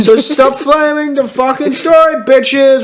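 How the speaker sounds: high, hammed-up scolding; mock angry rant. Author ordering preps to stop flaming, mock angry. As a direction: rail in a high, whiny mock fury.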